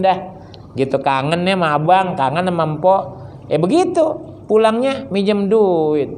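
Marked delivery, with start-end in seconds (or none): 3.5-6.1 sindiran. Acted. Menyindir saudara yang datang.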